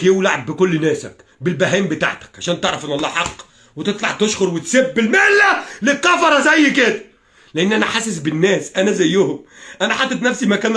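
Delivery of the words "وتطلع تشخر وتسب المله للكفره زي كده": rising to a drawn-out shout; real, indignant raised voice; angry outburst. Real, not acted. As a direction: let the anger burst out, slowly. Ranting angrily at Ahmed.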